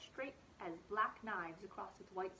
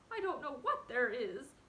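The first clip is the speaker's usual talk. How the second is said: wretchedly; 3 semitones higher, 5 dB louder than usual. Acted. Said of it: "answered Fiver wretchedly".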